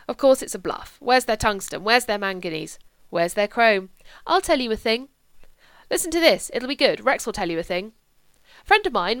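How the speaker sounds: loud, ranting political bluster; blustering politician. Acted. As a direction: hammer every point home like a blowhard. Rex holds forth to his guests.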